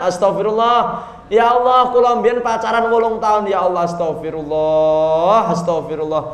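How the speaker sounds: lightly hammed-up penitent's prayer; acted repentance. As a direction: plead for forgiveness like a penitent. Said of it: "Eh, tobat".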